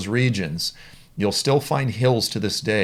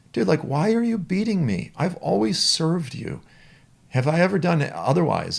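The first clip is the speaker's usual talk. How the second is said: whiny donkey; 7 semitones higher than usual. Acted. Donkey voiced complaining to Balaam.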